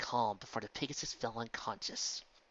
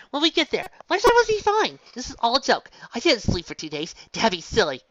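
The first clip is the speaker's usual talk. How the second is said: forced denial; 11 semitones higher, 12 dB louder than usual. A narrator's reading. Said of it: "Twilight lied to herself".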